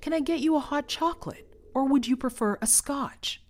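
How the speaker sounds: high, courteous robot butler voice; polite butler robot. Acted. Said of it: "greeted by name by your personal robot butler".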